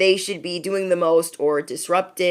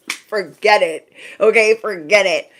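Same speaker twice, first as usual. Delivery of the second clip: louder, punched "forget it"; emphatic dismissal; 3 semitones higher, 5 dB louder than usual. Real, not acted. Warning listeners about jealous friends around a healthy relationship, emphatic dismissal. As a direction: write it off loudly, hitting each repeat.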